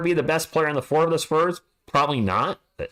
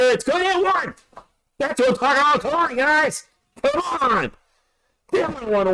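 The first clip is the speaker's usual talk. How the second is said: fired up; 13 semitones higher than usual. Real, not acted. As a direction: celebrate the alley-oop. Fired up over a play.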